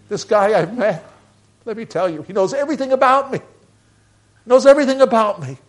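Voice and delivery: high, loud, fast excited rush; bursting to tell the whole town. Retold or imitated. Woman at the well tells the town about Jesus, high-pitched and excited.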